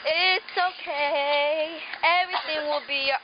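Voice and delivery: slow soothing. Real, not acted. Soothing choking friend.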